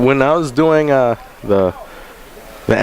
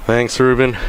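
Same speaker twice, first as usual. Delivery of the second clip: out of breath. Real, not acted. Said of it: "Let me catch my breath".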